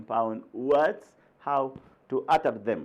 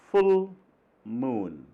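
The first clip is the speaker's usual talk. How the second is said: teacher models full moon; stress on full. Shown as a demonstration. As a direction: lift full, let moon fall. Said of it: "Two separate words".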